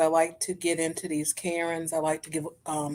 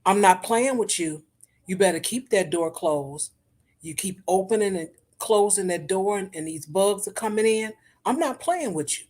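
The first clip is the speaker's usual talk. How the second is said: a hint of a stern Black mama scolding; lightly voiced mother warning her kid about the door. Mother scolding child about the door, lightly stern mama voice. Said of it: "you hear that mama voice".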